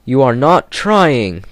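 severe scolding. Acted. Driver and fireman scolding Gordon on the hill, severe. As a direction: scold the lazy engine. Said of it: "talking to him severely".

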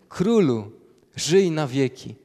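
loud, ringing royal greeting; proclaimed greeting. Acted. Daniel calls out to the king from the lions' den, loud and ringing. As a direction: call it out to the king with full voice. Greeting repeated as the key line.

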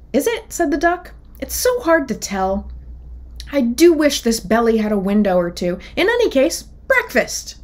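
high, breezy duck voice; carefree, announce breakfast; chirpy duck. Acted.

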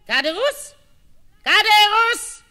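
calling out. Acted. Wife calling for husband.

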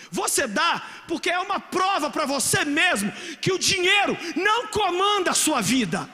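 rising to a loud, slow cry; preaching shout. Real, not acted. Preacher urging the congregation to give, rising into a loud shout. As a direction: drive the point home. Preaching climax about money.

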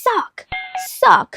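"suck" as the English word, falling; English pronunciation. Shown as a demonstration. Teacher showing the word the name clashes with, English pronunciation. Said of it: "มันสิพ้องกับค".

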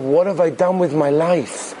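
slow, weighty question to oneself; acted soul-searching, drawn out; anguished self-questioning. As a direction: ask it slowly, in restrained anguish.

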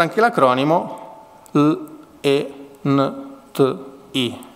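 L E N T I spoken letter by letter, slowly; spelling out letters. Shown as a demonstration. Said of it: "prendendo le prime lettere".

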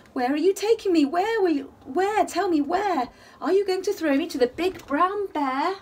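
mock-frightened child asking where; playful worried baby voice; scared cave baby. Baby frightened, being carried off.

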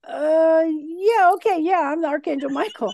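stall, then hurry through the claim; reluctant going along. Acted. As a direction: play along with a mock-grudging yes. Guides humouring the listener again.

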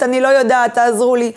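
a mild imitation of a hunched, fearful woman; helpless frightened woman. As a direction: play a cowering, scared woman begging for help. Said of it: "היא לא הולכת כפופה ומפוחדת".

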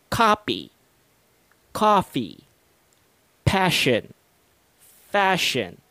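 "Copy" with a popped P, then "coffee" with a bitten-lip F; P versus F pairs. Shown as a demonstration. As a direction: contrast "pig" and "fig", lips closed for P and teeth on the lip for F. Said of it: "pay particular attention to my mouth whenever I mention these minimal pairs".

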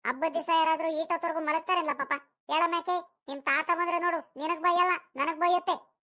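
mildly exasperated wake-up nag; nagging. Acted. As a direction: press a lazy child to get moving. Grandmother nags child to get up.

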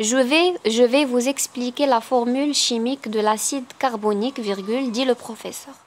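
very slow, naming each punctuation mark; slow dictation reading. Acted. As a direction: dictate it word by word. Dictates sentence.

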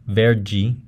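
verde as ver-jee with English r; Brazilian English-like R. Shown as a demonstration. Teacher imitates some São Paulo speakers, Brazilian R. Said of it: "some Brazilians would say".

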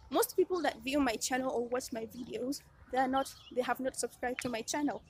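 panting while talking; out of breath. Real, not acted. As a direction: speak between quick breaths. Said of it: "Oh my God, I'm panting".

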